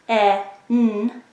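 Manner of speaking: "t, e, n" as three separate sounds: t, short eh, nnn. Shown as a demonstration. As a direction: break "t, e, n" into isolated phonemes. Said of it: "The first phoneme".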